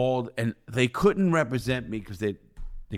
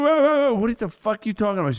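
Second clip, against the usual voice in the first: retold yell; 12 semitones higher, 5 dB louder than usual. Retold phone argument with wife.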